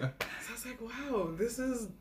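laughing through the words. Real, not acted. Remembering granddad's toothless smile, laughing. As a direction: let the laugh spill in.

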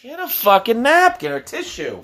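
high, loud scolding; dad yelling at son picking his nose; exasperated yell. Real, not acted.

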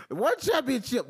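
scoffing at the lone title; incredulous repeat. Real, not acted. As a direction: hit the word one in disbelief. Repeating with disbelief.

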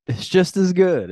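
high eerie echo of the slogan; echoing announcer. Pretend. Echoes the line in a high voice.

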